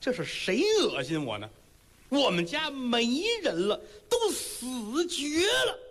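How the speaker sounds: rising into a slow, high, tearful wail; a heartbroken old woman lashing out through tears; bitter old mother. Acted. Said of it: "听着屋里边老太太说了".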